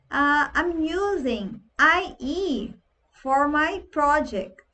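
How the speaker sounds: English with Brazilian flavour, slow; a light Brazilian accent on English. Retold or imitated. Dev saying this in a meeting, slightly slow. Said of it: "você fala assim".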